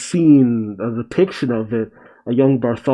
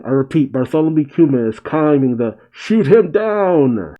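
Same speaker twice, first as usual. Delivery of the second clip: acted announcement, ending in a long raised cry; Marines announcing; 2 semitones higher than usual. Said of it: "with the Marines down below announcing".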